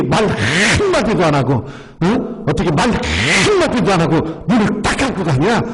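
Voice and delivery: imitating an aggrieved widow, pitch lifting as she goes; retold indignation. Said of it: "막 화를 내는 거예요". (화난 어머니를 흉내 낸 가벼운 분통)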